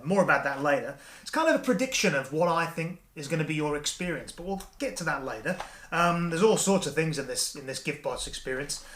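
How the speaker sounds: cheerful performer addressing his wife; upbeat magician patter. Acted. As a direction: sell the trip to your wife like a holiday rep. Presents trick as travel rep.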